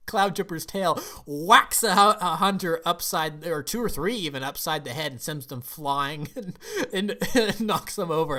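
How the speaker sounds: loud, laughing blow-by-blow account; amused retelling. Real, not acted. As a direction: tell it tickled, laughing between phrases. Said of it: "I thought that was hilarious".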